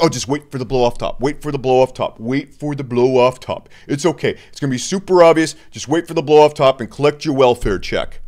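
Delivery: soothing, repeating the advice like a mantra; mock influencer. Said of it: "every influence in their dog is like".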